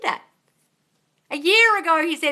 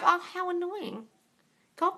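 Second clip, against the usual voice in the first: normal talking voice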